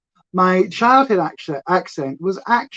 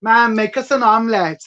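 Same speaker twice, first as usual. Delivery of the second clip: Gavin and Stacey Welsh line; 3 semitones higher, 3 dB louder than usual. Retold or imitated. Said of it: "That's that Gavin Stacey".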